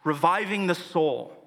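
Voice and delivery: measured psalm reading with pauses between phrases; scripture reading. Acted. Pastor reading the psalm to the congregation, measured scripture reading. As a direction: read each verse out solemnly, letting it land.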